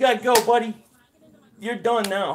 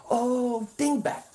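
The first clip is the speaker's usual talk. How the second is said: mocking; slower than usual. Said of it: "you dingbat".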